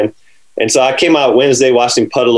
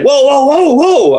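stop right there; 13 semitones higher, slower than usual. Retold or imitated. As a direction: cut him off, alarmed. Grant stopping him.

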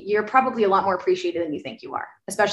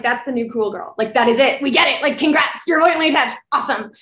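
building higher and louder, sarcastic; sarcastic mock congrats; 5 semitones higher, 4 dB louder than usual. Mocking girls who brag about being avoidant, sarcastic. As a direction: roll your eyes and congratulate them, mockingly. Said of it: "I'm like".

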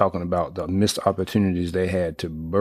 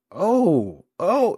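two rising oh's, the second far higher; excited disbelief; 12 semitones higher than usual. Retold or imitated. Fan seeing Parchment catch the ball, shrieking oh oh. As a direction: gasp it out as the ball is caught.

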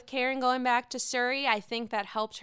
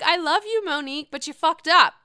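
higher, louder, blunt imitation of the scolding; emphatic quote; 6 semitones higher, 8 dB louder than usual. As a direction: hit it like a friend calling her out. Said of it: "She's like".

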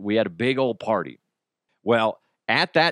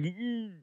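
stoned mumble; 10 semitones higher, 11 dB quieter than usual. Retold or imitated. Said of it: "I can't speak".

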